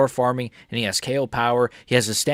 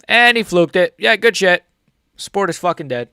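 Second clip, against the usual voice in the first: exasperated rant; 7 semitones higher, 7 dB louder than usual. Real, not acted. Repeats line with more force.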